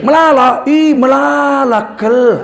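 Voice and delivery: emphatic Karo-style exclamation with "kel". Retold or imitated. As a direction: call it out like an excited Karo speaker. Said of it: "gini kan".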